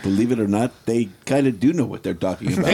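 put-on light French Canadian accent; a hint of French Canadian accent. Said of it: "Was that a French Canadian accent".

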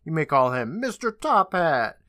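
lightly voiced show announcer, slowing at the end; retold big-top introduction, only mildly projected; mock ringmaster yell. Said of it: "and a voice yells".

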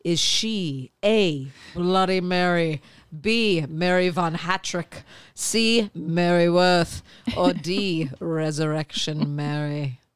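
slow spooky storyteller read; ghost story voice. Acted. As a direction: draw out the options like a campfire tale. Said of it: "that's her ghost story voice".

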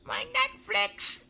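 very high, slow squeaky whine; high slow mock whimper. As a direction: squeak it out slowly.

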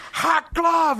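imitating a high, rowdy cry; pumped-up yell. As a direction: burst out like a hyped-up drunk. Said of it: "like, all pumped up".

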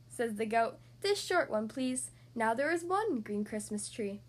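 lively picture-book read-aloud; reading to children. Acted. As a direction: read it like bedtime story time. Reads picture book to kids.

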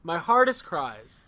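slow, solemn stress on hardest; dramatic slow. Shown as a demonstration. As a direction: lean hard on hardest. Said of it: "we're doing our hardest cries".

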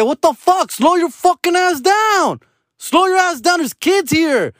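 high-pitched, acted outrage; retold angry yelling. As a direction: re-enact telling off a driver. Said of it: "I was mad".

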